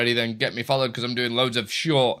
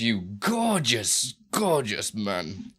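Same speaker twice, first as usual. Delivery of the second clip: affectionate; 2 semitones lower, much slower than usual. Acted. Fond slow praise of viewer.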